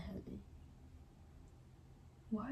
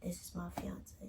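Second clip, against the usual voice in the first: mock whisper; 6 dB quieter than usual. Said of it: "trying to fake like".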